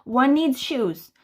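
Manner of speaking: slow, drawn-out stern parent; slow mock stern. Mum repeating the rule to Spud, slow and mock stern. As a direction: spell it out slowly like the hundredth time. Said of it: "How many times do I have to say".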